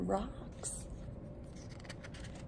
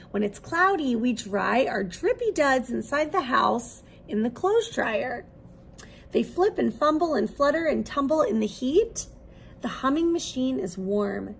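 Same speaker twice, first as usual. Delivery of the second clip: lively, expressive picture-book read-aloud; reading to children. Acted. Teacher reading a laundry picture book to her class, lively storytelling. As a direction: bring the story alive for little listeners.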